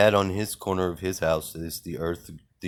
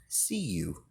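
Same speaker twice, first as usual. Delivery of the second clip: breathy, voiceless, menacing whisper; creepy whisper; 9 dB quieter than usual. Acted. Warning the machines he sees them, in a creepy whisper. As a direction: whisper it like you're watching them.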